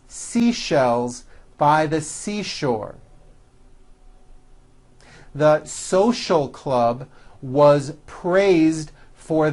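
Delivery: slow, careful model reading; teacher reading drill sentences; practice sentence read. Shown as a demonstration. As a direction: read each sentence clearly to be repeated.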